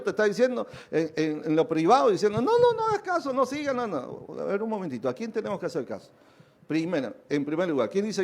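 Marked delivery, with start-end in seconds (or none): 2.4-4.3 voice in your ear. Retold or imitated. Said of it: "te está hablando al oído".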